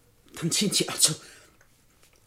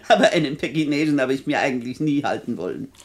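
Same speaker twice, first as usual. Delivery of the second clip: teasing laugh; 3 semitones lower than usual. Acted.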